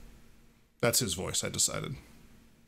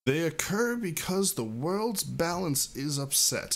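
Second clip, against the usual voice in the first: slow Xatu retake; 6 semitones higher, slower than usual. Acted. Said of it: "Let me take that line again".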